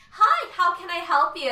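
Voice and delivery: high, loud, bubbly customer greeting; preppy office voice. Retold or imitated. Grocery worker showing her preppy customer voice. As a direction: chirp it like a grocery clerk. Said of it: "this super preppy voice".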